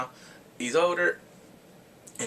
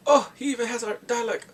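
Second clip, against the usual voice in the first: high, louder teasing; imitated taunting wonder; mocking kids; 9 semitones higher, 5 dB louder than usual. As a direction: jeer in feigned amazement, pitched up. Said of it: "these kids are making fun of them".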